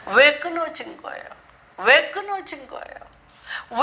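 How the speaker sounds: rising, pleading cries of why to the Lord; Hannah's pleading lament. Acted. Preacher voicing Hannah crying to God, pleading. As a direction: beg God like an abandoned woman.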